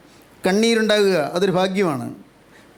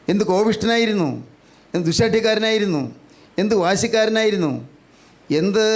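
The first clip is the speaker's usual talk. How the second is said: raised, insistent exhortation; fervent preaching; 2 semitones higher than usual. Real, not acted. Preacher asks listeners to examine their past, fervent preaching. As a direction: press each searching question on the congregation.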